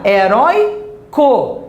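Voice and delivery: "heróico" drawn out slowly, syllable by syllable; stress on middle syllable. Shown as a demonstration. Teacher adding a syllable to herói, slow syllable-by-syllable demonstration. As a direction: say "heróico" slowly, stress on "rói", added "co" set apart. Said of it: "Se eu acrescentar mais uma sílaba".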